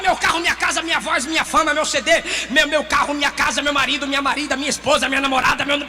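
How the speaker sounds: mild mocking greedy prayer. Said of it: "para de orar".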